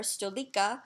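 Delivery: "stolika" said as Serbian STO-lee-kah; Serbian word. Shown as a demonstration. Teacher shows students the Serbian word for chair, Serbian pronunciation.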